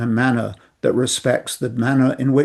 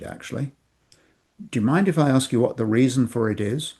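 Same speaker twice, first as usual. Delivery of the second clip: calm acknowledging. Shown as a demonstration. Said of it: "approaches that is so helpful".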